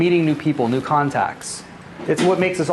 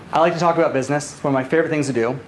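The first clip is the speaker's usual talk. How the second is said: pressured rushing speech; 3 semitones lower, faster than usual. Real, not acted. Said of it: "if I'm talking a mile a minute, like I am right now".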